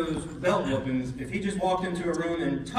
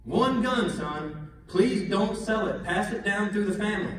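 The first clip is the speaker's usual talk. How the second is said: higher, measured fatherly plea; father's plea; 4 semitones higher than usual. Retold or imitated. Dad asking his son to keep one gun, earnest plea. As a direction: press each point like an earnest dad. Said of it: "he said it to me again".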